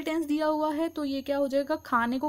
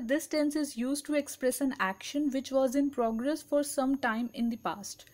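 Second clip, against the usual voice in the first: very slow, word by word definition reading; slow dictation; much slower than usual. Shown as a demonstration. Teacher reading a definition to students, very slow and deliberate. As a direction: read it out slowly so students can write.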